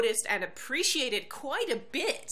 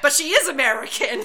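louder, laughing through the words; 6 semitones higher, 13 dB louder than usual. Real, not acted. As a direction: laugh as you point out the irony. Laughing at the irony.

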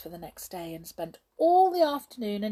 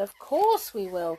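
eager echo; 2 semitones higher, 6 dB louder than usual. Acted. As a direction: echo it a little less loudly. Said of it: "cried the brownies".

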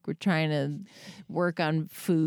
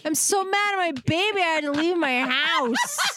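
much higher, laughing half-shout; laughing confession; 9 semitones higher than usual. Retold or imitated. Mom retelling her confession to the friend. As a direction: blurt it out laughing.

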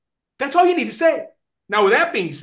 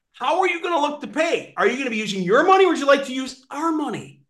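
upbeat sales pitch; 2 semitones higher, 3 dB louder than usual. Shown as a demonstration. Trainer repeating the pitch to customers with gusto. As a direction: pitch it with big enthusiasm. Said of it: "Let me repeat".

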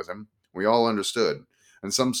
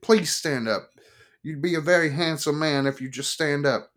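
pleading woman; 8 semitones higher than usual. Acted. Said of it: "she pleaded".

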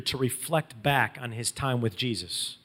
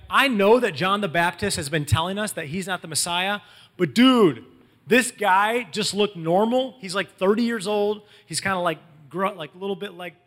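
mildly frantic retold disbelief, raised pitch; freaking out; 3 semitones higher, 4 dB louder than usual. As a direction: act out someone freaking out to a friend. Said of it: "So Andrew's freaking out".

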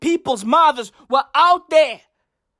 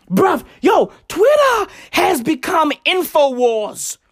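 exasperated shout; 4 semitones higher than usual. Real, not acted. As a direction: shout it in disbelief. Ranting at celebrities' conspiracy talk.

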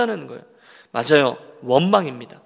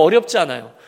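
normal talking voice

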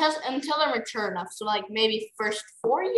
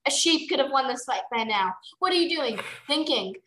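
raised, insistent spectator heckles; rowdy crowd jeering, rising higher; heckling crowd; 6 semitones higher, 4 dB louder than usual. A narrator's reading. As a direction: egg on the fighters, building to a chant. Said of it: "more dragons in the crowd shouted".

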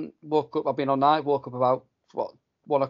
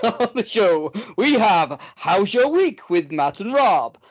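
put-on slow, lightly posh RP English accent; 6 semitones higher, 5 dB louder, slower than usual. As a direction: read the rundown in an RP accent. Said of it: "your clearest, best R P accent".

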